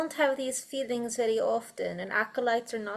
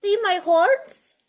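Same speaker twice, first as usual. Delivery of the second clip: higher, louder and slow, amazed; surprised question; 8 semitones higher, 8 dB louder, slower than usual. Real, not acted. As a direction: ask it wide-eyed, drawn out. Acolyte reacts to compliment.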